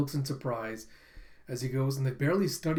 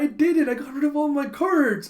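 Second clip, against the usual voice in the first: high, loud mock-gloating cheer; triumphant; 10 semitones higher, 8 dB louder than usual. Card winner crows to the other players, triumphant. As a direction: exclaim it like a victory cry.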